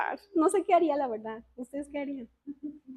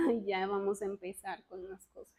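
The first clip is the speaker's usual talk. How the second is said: much softer and lower, muttered to herself; wary aside; 8 semitones lower, 12 dB quieter than usual. Retold or imitated. Retells her wary reaction. (comentario en voz muy baja)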